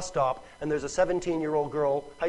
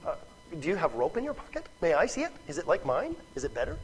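soft, innocent questioning; polite curiosity; 6 dB quieter, faster than usual. Acted. Woman asking about the stranger's water, softly curious. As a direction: ask softly, as if truly interested. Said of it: "she's not curious. She's not saying".

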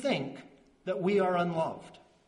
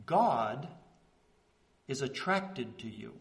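tender hush; 5 semitones lower, 4 dB quieter than usual. Real, not acted. Tender climax on God's affection.

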